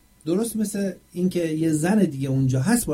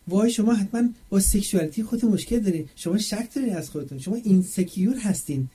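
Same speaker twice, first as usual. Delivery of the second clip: higher-pitched mock accusation; put-on scolding retort; mocking imitation; 6 semitones higher than usual. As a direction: mimic an indignant critic, pitched up. Acts out critics' accusing retort.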